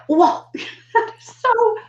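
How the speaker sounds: teacher marvelling at a student's breakthrough; delighted amazement. Retold or imitated. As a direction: gush with joy at their progress. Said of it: "you're just like".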